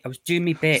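lightly put-on British accent; a hint of British accent; mock British. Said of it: "a terrible accent".

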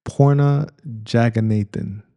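"Porna Jaganathan" said deliberately, trying not to garble it; careful name pronunciation. Shown as a demonstration. Reviewer attempting an actress's name without destroying it, careful pronunciation. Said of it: "I don't wanna destroy it".

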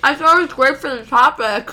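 giggling through words; laughing. Real, not acted. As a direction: laugh while you say it. Laughing while eating.

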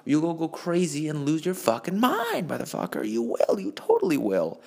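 breathless from ranting; winded, running out of air; out of breath. Real, not acted. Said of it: "I'm out of breath from talking so much".

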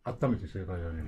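talking through a mouthful of bun; stuffed cheeks. Real, not acted. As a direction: mouth full. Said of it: "頬張りながら".

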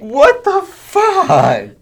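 very high, loud, stretched-out disbelief; appalled shriek. Real, not acted. Host hears the dog's head turned up late, appalled shriek. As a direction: wail it in outraged shock. Learns head found years later.

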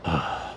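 tired sigh out; weary sigh. Acted. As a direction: let out a sigh. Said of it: "Seb sighs".

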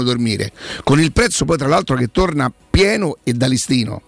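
radio ad read; infomercial. Acted. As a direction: sell it like a radio spot. Host reads sponsor ad. (lettura di uno spot pubblicitario radiofonico)

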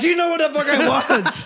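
high-pitched, hammed-up outburst; retold indignant retort, half laughing; mock exasperation. Customer to bartender who asked what he wants, mock exasperated.

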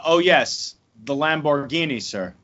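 Michael Caine impression. Co-host asked for a line, low murmured Michael Caine impression. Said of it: "what was the line?".

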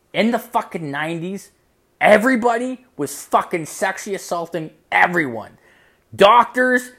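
high, loud, punched-out list; emphatic mock-mom rant. Mom explaining the nineties to her son, emphatic rant. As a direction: imitate an exasperated mother, voice pitched right up.

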